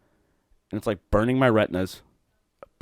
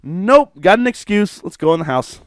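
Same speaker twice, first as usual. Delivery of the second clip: high, loud, drawn-out mock relief; put-on singsong celebration, pitched high; mock glee; 10 semitones higher, 5 dB louder, slower than usual. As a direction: gleefully seize on the excuse, hammed up. Acting out gleeful rain excuse.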